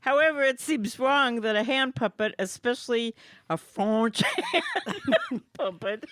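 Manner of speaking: keeps the hammed-up French accent going; mock French accent. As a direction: reads the card like a bad French impression. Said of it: "that accent, phenomenal".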